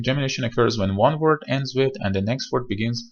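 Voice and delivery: reads the rule slowly and carefully; slow rule reading. Shown as a demonstration. Teacher reading the pronunciation rule aloud, slowly. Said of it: "پرونانسیشن رولمون".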